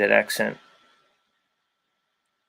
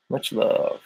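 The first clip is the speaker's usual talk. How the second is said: breathy whisper, barely voiced; soft whispered thanks; whispered much love; 6 dB quieter than usual. Real, not acted. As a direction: whisper it to a fan. Whispered sign-off to viewer.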